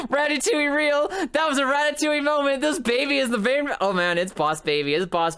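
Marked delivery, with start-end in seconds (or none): 0.1-3.7 high voice coming out of laughter; amused excitement. Real, not acted. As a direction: exclaim it high, still amused. Still laughing at animation.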